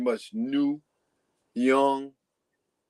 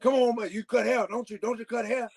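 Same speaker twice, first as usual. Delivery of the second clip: higher, coaxing mentor voice; imitating Cool Breeze; 8 semitones higher than usual. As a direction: sweet-talk the kid into it, pitched up. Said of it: "That's how he talked".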